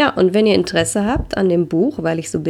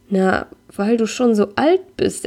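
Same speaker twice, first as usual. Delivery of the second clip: slow, higher, helpless excuse; helpless explaining; 4 semitones higher than usual. Acted. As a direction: fumble the reason out, at a loss. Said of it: "erkläre ich hilflos".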